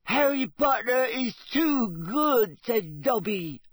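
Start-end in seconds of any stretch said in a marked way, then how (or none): 0.0-2.6 very high, loud, slow elf squeak; squeaky house-elf. Acted. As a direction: squeak it out like a tiny grateful elf. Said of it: "He squeaked".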